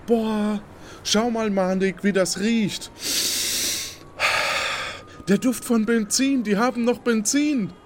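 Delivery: high, thrilled gushing; excited. Acted. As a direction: gush over the smell. Excited at old tech.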